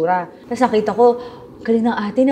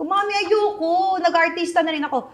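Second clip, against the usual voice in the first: whiny protest; 8 semitones higher than usual. Retold or imitated. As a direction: drag out the refusal like a pouting child. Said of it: "sabi ko".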